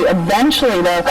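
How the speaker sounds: hiccup cuts the word; words broken by hiccups. Real, not acted. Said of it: "the hiccups are killing me".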